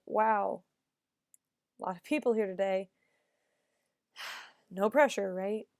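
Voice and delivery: a long beat after "Wow", then "a lot of people here today", pause, sigh, "No pressure"; pauses at the periods. Shown as a demonstration. Acting student reading the eulogy's opening, pausing at each period. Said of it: "read it with the periods and have a little bit of pause there".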